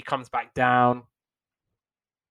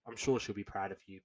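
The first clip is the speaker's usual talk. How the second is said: dismissive; 2 semitones lower, 6 dB quieter than usual. Retold or imitated. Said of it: "she just kind of was like".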